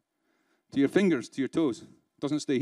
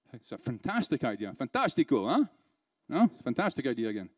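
dry, lower, understated sarcasm; British sarcasm; 3 semitones lower than usual. Acted. Trainer mocking a lunchtime one-to-one, British sarcasm. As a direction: praise it drily, meaning the opposite. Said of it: "That's sarcasm. This is British sarcasm".

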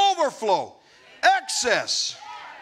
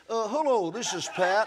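the real Pat; 2 semitones lower than usual. Retold or imitated. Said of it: "All of a sudden I hear".

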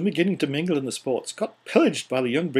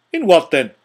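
louder, pressing retort; sharp demand; 3 semitones higher, 10 dB louder than usual. Acted. Scrooge demanding an answer from his fiancee, sharply raised voice. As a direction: push back hard, demanding an answer.

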